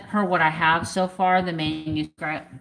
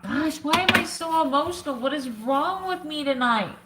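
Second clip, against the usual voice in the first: self-mocking thought; 9 semitones higher than usual. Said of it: "And I thought".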